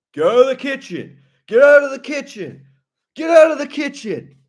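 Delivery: high, loud repeated order; mock furious yell. Imitated cook banishing intruder from kitchen, mock fury. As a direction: shriek it, hammed-up and building.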